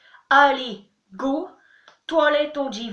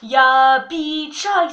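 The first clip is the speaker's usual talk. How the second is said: burp talking; 8 dB louder, much slower than usual. Shown as a demonstration. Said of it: "un peu de tchèque en rotant".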